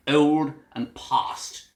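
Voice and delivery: put-on old BBC English accent, slowly drawn out; old Oxford English vowels on old and past; old standard English. Shown as a demonstration. Teacher giving sample words of old Englishmen, old standard English. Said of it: "the way the true old Englishmen".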